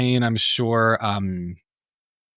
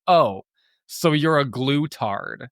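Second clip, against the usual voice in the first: retold loud announcement, pitched up and drawn out; mock-announce it to a whole table; 4 semitones higher, slower than usual. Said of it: "very loudly announces to the whole table".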